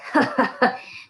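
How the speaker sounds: breathy scornful chuckle; mocking laugh. A narrator's reading. Sheriff scoffing at the teacher, breathy mocking laugh. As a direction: laugh her off. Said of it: "The sheriff laughed".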